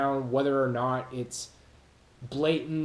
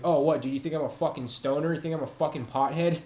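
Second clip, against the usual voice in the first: aggressive comeback; faster than usual. Retold or imitated. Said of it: "I would get aggressive and be like".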